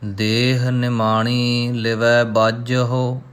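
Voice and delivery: very slow, drawn-out recitation; scripture recitation. Shown as a demonstration. Teacher reciting Gurbani for learners, slow and measured. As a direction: recite evenly, stretching the long vowels.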